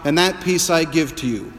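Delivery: a believer proclaiming faith to a neighbor, fervently; fervent confession. Retold or imitated. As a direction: proclaim it with full conviction. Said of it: "saying to your neighbor".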